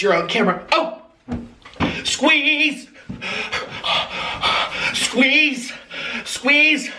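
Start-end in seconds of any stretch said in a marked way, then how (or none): 2.0-6.9 shouting squeeze. Acted. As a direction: call out the squeeze order. Shouting commands in game.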